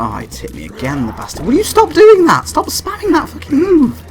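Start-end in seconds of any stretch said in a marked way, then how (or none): 1.5-4.0 high-pitched exasperated outburst; real frustrated gamer squawk; excited, out of control. Real, not acted. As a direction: yell it high, voice running away from you. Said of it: "I lose all control of my volume or pitch of my voice".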